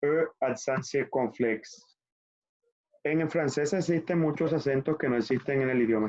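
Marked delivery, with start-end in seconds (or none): 0.0-1.8 E accent circonflexe slowly, ad-san se-kon-fleks; French term. Shown as a demonstration. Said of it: "acento circunflex".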